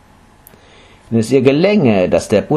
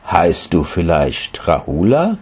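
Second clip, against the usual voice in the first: lower, slow, wondering; gentle question; 4 semitones lower than usual. Acted. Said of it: "fragt der Buddha".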